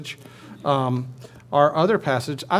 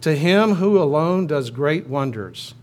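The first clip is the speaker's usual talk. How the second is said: slow, louder proclamation; cantor's call; 5 dB louder, slower than usual. Pretend. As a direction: lead the congregation with a measured, projected line. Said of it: "I'm the cantor".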